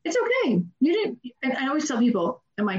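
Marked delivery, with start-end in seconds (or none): 0.0-0.6 okay lifted high and soothing; a bright high reassurance; high reassuring okay. Retold or imitated. Reassuring repeat, pitch jump. 0.8-1.2 reassuring. Retold or imitated. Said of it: "you can say".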